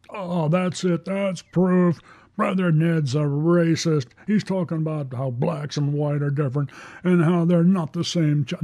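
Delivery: a critic pouncing on his words; hammed-up outraged heckler; mock accuser. Mock accuser calling him racist.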